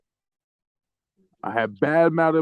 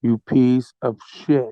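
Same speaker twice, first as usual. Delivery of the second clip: mock menace; 3 semitones lower, slower than usual. Staged rant threatening a player.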